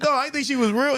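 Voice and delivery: high-pitched mock protest; retold protest. Storyteller explaining himself to his homie, high-pitched protest. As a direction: protest high, amused at yourself.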